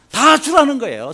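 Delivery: high, loud outraged exclaim; high indignant cry of disbelief. Retold or imitated. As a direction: throw it up in disbelief. Preacher voicing indignant disbelief.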